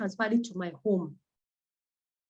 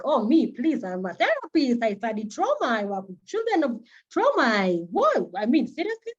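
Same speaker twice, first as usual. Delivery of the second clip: self-mocking incredulity; 3 semitones higher than usual. Mocking her past self-assurance.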